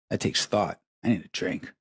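ordinary talk

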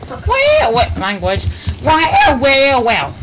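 high booming sunny voice; beaming cartoon sun scolding; Sun impression. Shown as a demonstration. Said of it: "do the Sun impression every time".

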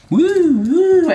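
high whooping cheer; excited woo. Real, not acted. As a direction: whoop with delight. Spinning the pen.

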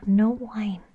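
firm whispered no to a puppy; whispered no to a naughty puppy; whispered scolding. Pretend.

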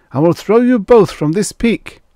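high, loud threat; threatening cry. A narrator's reading. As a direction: cry out a threat to both of them. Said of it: "cried Finn".

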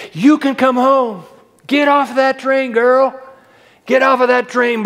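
high, loud, pleading call to come home; full-force preaching. Acted. Preacher voicing Jesus calling sinners home, full force.

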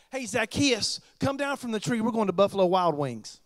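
casual, friendly call up to a friend; friendly invitation. Shown as a demonstration. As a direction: invite him down like an old buddy. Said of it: "Here's what he said".

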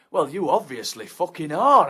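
loud, cutting; angry retort. Acted. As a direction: snap it back.

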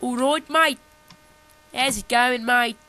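loud, playful South African accent attempt; amateur South African greeting voice. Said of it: "South African I just did".

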